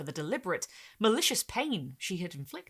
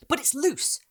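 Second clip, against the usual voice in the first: put-on eager boy; 9 semitones higher, 7 dB louder than usual. Boy interrupting.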